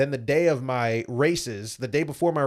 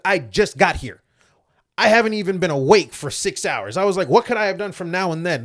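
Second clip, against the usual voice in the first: higher and louder, retelling his heated self-defense; indignant protest; 5 semitones higher, 5 dB louder than usual. Retold or imitated. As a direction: push back, indignant and a bit louder. Defending himself against accusing officials.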